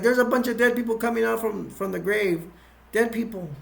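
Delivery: retold yelling. Spider warns about the dead rising, mock urgent yell. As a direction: imitate a frantic warning without really yelling. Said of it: "they're all yelling".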